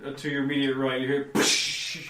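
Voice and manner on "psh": a breathy voiceless "Psh!" like glass breaking; imitated shatter. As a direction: hiss out a quick glass-smash noise. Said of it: "it sounds like a piece of glass has just been shattered".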